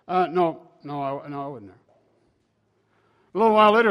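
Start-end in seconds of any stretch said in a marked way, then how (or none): 0.1-1.8 understated denial, softening toward the end; calm denial. Acted. Peter denying it to the servant girl, calmly. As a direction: deny it calmly, letting it sink away. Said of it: "Very calmly said".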